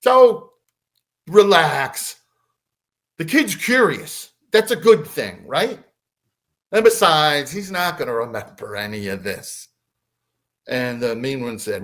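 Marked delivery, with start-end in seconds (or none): 0.0-9.7 arguing back. Retold or imitated. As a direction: imitate the nice one talking his partner down. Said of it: "the nice one argues back".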